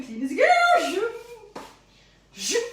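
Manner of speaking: loud, high call-out; cheery shout. Pretend. Baker calling to the lads, loud cheery shout. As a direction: bellow the reminder to the lads.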